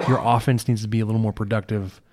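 coughing through the line; talking with a chesty cough. Real, not acted. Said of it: "Sorry for the coughing".

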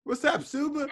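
put-on British street greeting; British accent. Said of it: "you don't got a British accent".

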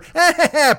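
high childish giggle, put on; hammed-up goofy chuckle; goofy mock laugh. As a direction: laugh like a silly kid. Imitating friend as goofy child.

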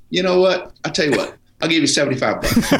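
imitated Southern mechanic; Southern accent. Mechanic repeating his lowball offer, Southern accent. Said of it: "a Southern accent".

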